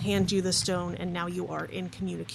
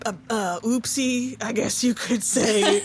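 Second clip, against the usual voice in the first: sheepish father; 3 semitones higher, 5 dB louder than usual. Acted. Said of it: "who says".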